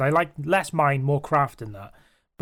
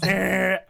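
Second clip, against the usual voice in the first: buzzer noise; 4 semitones higher than usual. Retold or imitated. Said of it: "a buzzer that goes".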